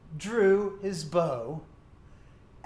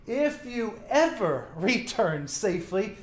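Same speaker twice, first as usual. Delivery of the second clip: sarcastic. Acted. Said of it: "hear the sarcasm in this prophet's voice".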